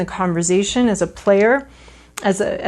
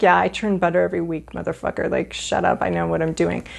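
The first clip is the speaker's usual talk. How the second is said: mock annoyed; 2 semitones lower, faster than usual. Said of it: "she's like".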